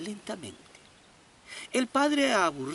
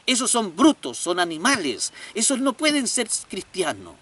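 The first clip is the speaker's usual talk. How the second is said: louder, scolding father; angry father; 6 dB louder than usual. Acted. Annoyed father scolds his son, louder. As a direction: snap at the boy in annoyance. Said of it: "el padre enojado le dice".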